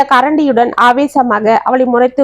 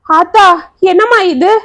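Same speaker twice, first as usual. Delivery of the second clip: distressed; 6 semitones higher than usual. A narrator's reading. Aunt seeing the burn on her niece, distressed. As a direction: cry out at the wound in distress. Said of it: "என்று துடி துடித்து கொண்டு".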